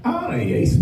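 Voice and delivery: mock Scouse greeting; teasing Scouse impression; Scouse accent. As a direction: exaggerate the Scouse lilt. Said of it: "What does Scousers have to talk like that".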